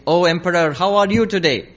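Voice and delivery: ringing storyteller's salutation; sage's hail. Acted. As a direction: hail the emperor grandly before the court. Sage hails the emperor at court.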